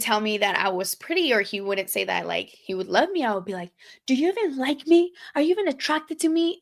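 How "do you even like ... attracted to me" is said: imitating herself. Insecure girlfriend questioning partner.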